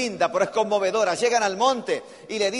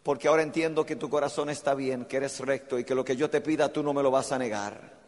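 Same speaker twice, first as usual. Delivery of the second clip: a lower, softer angel's voice; angel speaking; 5 semitones lower, 5 dB quieter than usual. Acted. Angel stopping Abraham's hand, lower and softer. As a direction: stay the father's hand gently. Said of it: "Y le dice".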